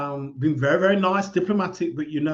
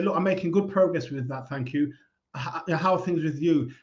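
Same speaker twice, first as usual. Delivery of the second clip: softer, quiet friendly brush-off; calm polite reply; 3 dB quieter than usual. Shown as a demonstration. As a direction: close the topic gently and turn it back.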